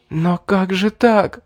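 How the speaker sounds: high slow hissing protest; hissed. Acted. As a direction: hiss it through anger. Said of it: "прошипела девушка".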